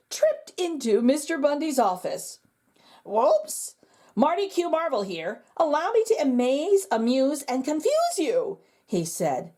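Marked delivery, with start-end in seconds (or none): 3.1-8.6 bright, higher showman voice; a clumsy magician hamming it up; bumbling magician. Acted. Magician introduces himself to the principal, lightly hammed showman voice.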